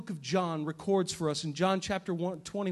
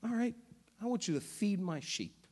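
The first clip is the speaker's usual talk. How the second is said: soft, humble, almost hushed plea; groveling; 7 dB quieter than usual. Retold or imitated. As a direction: grovel before the Lord. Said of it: "you can see Peter groveling".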